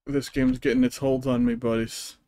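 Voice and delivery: put-on a slip into a light Scottish accent mid-sentence; accidental Scottish accent. Gamer slipping into a light Scottish accent, hooked on the game. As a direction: let a hint of Scottish brogue creep in. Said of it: "I didn't mean to say that with that dumb accent".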